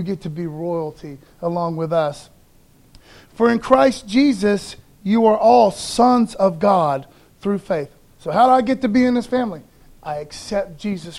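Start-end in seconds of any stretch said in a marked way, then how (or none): 3.3-7.9 slow, measured reading of the verse; scripture reading. Acted. Preacher reading Galatians to congregation, slow and measured. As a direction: read it out slowly and deliberately.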